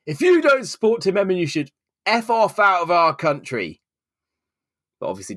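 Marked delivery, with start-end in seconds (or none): 0.1-3.8 high mock yell of the pub patron; mock shout. Angry fan telling her to leave the country, mild mock yell. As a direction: fling the insult in parody. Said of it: "one of them shouted at me".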